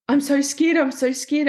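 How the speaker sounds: a scared plea, voice climbing; retold panicked cry. Owner at her dog's euthanasia retells crying out, frightened plea. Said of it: "And it was".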